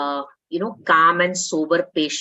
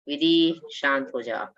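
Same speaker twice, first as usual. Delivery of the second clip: calm soothing reminder; 4 semitones lower than usual. Shown as a demonstration. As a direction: hush yourself gently to calm down. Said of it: "you can see me saying that".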